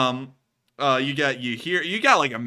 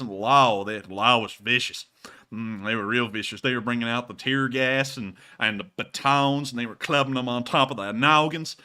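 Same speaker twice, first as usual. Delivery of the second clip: put-on Southern accent; 2 semitones lower than usual. Answering the chat question in a Southern good-old-boy accent. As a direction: tell it like a country storyteller. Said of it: "legible through that accent".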